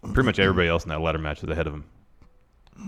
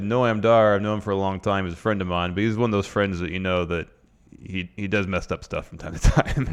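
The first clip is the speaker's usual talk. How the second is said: put-on Scottish accent. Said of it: "he said".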